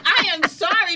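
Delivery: high, laughing mock apology. Reaching out to her friend, laughing apology. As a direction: squeal it out through a laugh.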